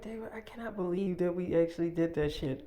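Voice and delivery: half-whispered retold amazement; hushed disbelief. Woman marvelling to David after filming, hushed. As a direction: drop into a soft, whispery voice.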